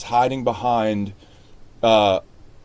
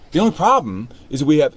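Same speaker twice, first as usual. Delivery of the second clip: "The only problem" launched higher, as if it just occurred; fresh new thought; 4 semitones higher, 4 dB louder than usual. Shown as a demonstration. Coach shows actor a next line just discovered, "The only problem" lifted as a new thought. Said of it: "I didn't know I was gonna say that".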